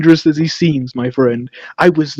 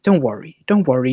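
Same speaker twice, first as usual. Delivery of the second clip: mock soothing; 3 semitones lower, 4 dB quieter than usual. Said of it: "Do you think I was like".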